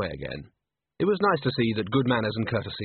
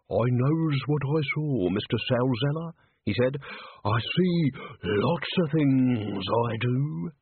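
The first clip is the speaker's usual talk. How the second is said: put-on stubborn old man voice; 2 semitones higher, slower than usual. Old man's stubborn reply.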